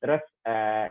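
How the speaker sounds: ordinary talk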